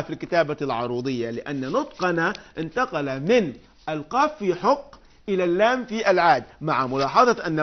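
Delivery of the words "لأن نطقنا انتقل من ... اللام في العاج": ordinary talk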